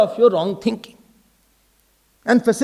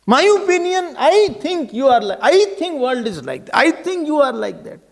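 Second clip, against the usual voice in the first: emphatic, higher-pitched insistence, punching "I"; opinionated; 5 semitones higher than usual. Acted. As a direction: pronounce your opinions as fact, acting out an egotist. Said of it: "what opinion I have made".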